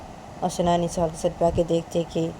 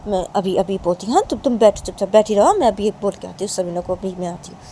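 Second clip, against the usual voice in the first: lightly acted mother, raised volume; louder motherly fussing; bustling mother; 3 semitones higher, 5 dB louder than usual. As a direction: tell her firmly to sit and wait.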